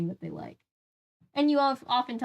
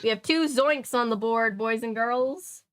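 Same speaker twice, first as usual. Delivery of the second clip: game show host; 3 semitones higher than usual. Pretend. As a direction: announce it to the kids like a show host. Jokey game-show host aside.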